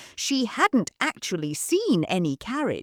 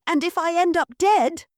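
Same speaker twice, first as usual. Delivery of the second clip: demanding; 11 semitones higher, 5 dB louder than usual. Acted. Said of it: "Mabel demanded".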